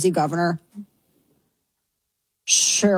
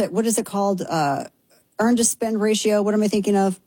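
usual speaking voice

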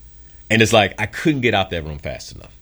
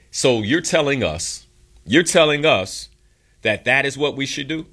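imitating a skeptical audience; incredulous questioning; 6 semitones higher than usual. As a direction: question it in disbelief, pitch raised. Audience questioning his advice.

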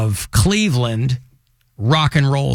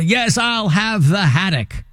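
higher, slow put-on Manchester accent; 5 semitones higher, slower than usual. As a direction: order dinner as a mock Mancunian. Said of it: "my dinner order will give me away".

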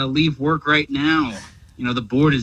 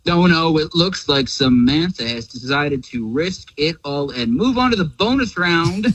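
game show host. Acted. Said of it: "I still don't really get the game show voice".

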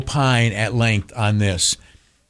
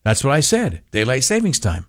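deadpan. Retold or imitated. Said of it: "with a blank expression on your face".

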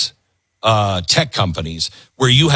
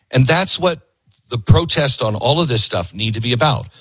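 ordinary delivery

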